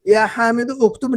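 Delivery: "या हामिदो उक्तुब" with the words kept apart and the u of "उक्तुब" voiced; wrong separate reading. Shown as a demonstration. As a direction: say it the incorrect, unlinked way. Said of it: "नहीं पढ़ेंगे". (ग़लत तरीका: "या हामिदो उक्तुब" अलग अलग)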